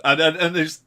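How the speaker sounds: words through a laugh. Real, not acted. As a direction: laugh into the start of the line. Laughs while talking about film.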